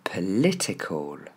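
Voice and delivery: POLITICAL as "pe-LÉ-té-col", slowly; slow model "political"; E sound for I. Shown as a demonstration. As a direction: stress LI in "political", falling end. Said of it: "nos deux sons E pour la lettre I".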